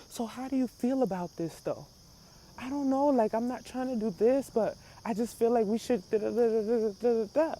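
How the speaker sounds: soft, even-tempered imitation of sudden calm; mock monk calm. Husband turning calm after a tantrum, mock monk mode. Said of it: "goes monk mode".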